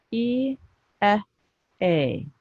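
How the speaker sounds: "E" high, "eh" short, "a" falling; phonics sounds. Shown as a demonstration. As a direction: sound out "E", "eh", "a" one at a time. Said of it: "Three sounds".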